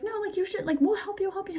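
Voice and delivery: high-pitched mock coaxing; coaxing nurses. Nurses pressing her, acted out.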